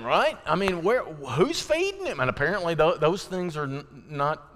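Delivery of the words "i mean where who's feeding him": worried parent. Retold or imitated. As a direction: stretch it out like an anxious mom. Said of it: "I'm just like".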